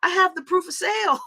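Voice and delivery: loud, high indignant retort; indignant outburst. Retold or imitated. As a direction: shout it back, offended. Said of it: "And I'm like".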